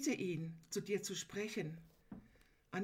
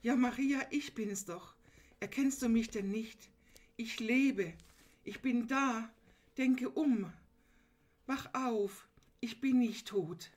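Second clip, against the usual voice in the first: higher, louder, lightly voiced Jesus urging her awake; Jesus calling Maria; 3 semitones higher, 4 dB louder than usual. Preacher voicing Jesus to grieving Maria, higher, louder, urging. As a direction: call her name gently but insistently as Jesus. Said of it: "Es heißt so ungefähr wie".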